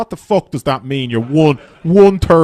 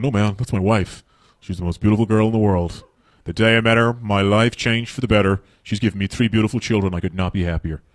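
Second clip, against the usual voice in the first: mock gushing husband; 5 semitones lower than usual. American husband praising wife.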